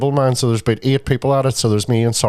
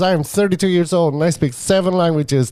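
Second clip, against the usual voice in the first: imitated excitable boast, pitched up; higher, excitable retold voice; excitable man; 5 semitones higher than usual. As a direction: brag like an eager stranger. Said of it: "he was real excitable".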